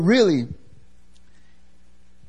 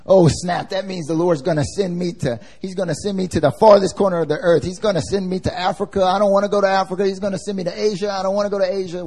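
mock panic; 5 semitones higher than usual. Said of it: "we're like".

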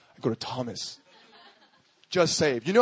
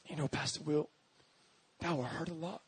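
very soft, hesitant voice; timid guy; 10 dB quieter than usual. Retold or imitated. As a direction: imitate a shy student answering softly. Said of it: "he was kinda, like, timid guy".

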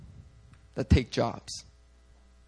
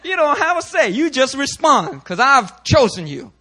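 loud, high firm refusal, slowing; God overruling Joshua, loud and slow; 6 semitones higher, 6 dB louder, slower than usual. Retold or imitated. God telling Joshua he has no say, loud firm command. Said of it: "God's like".

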